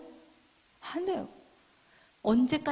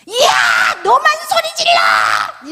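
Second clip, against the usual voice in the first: very high, loud, drawn-out scream; yelling back louder; 9 semitones higher, 12 dB louder, much slower than usual. Acted. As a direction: outshout a quarrelling spouse, hammed up. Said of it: "이러면서 더 크게 소리를 질러". (더 크게 악쓰며 소리 지르기)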